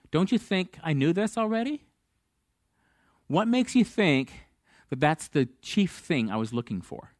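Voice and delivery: mild acted incredulity, pitch leaping on the questions; incredulous rebuke. God questioning Moses at the burning bush, incredulous rebuke.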